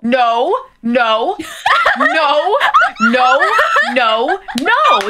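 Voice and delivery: repeated punchy cries of protest; mock-outraged refusal. Real, not acted. Reacting to a pronunciation video, mock-outraged protest. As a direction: refuse it over and over, rising in pitch.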